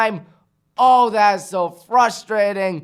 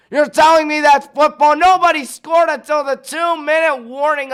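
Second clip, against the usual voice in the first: incredulous; 7 semitones higher, 3 dB louder than usual. Real, not acted. Repeated in higher disbelief.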